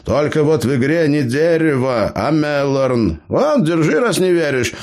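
put-on high-pitched cheeky old gnome. A narrator's reading. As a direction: play the crafty gnome, pitched well up. Gnome Eber speaks.

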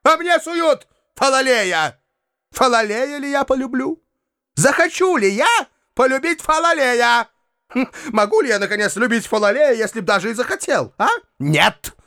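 a hint of theatrical disgust; mild disdainful rant; Foma's spiteful rant. A narrator's reading. Foma rants about Falalei.

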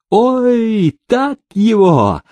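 high, slow, cackling cheer; egging on. A narrator's reading. Prokofy eggs on the runaway in a high excited voice. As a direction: urge the fighter on, delighted. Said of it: "подзадоривал Прокофий беглого".

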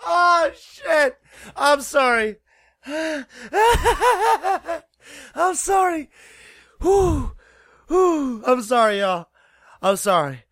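helpless high-pitched laughing; breaking up mid-apology; shocked laughter. Real, not acted. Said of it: "Why am I dying out of laughter?".

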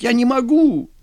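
frightened lieutenant pleading with his general; panicked pleading. Acted. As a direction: beg him not to make you shoot.

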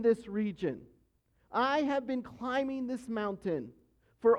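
slow, steady reassuring guide voice; a mountain guide calmly coaxing a stranded climber. Retold or imitated. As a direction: talk a lost climber down, slowly and patiently. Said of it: "you hear this voice that says".

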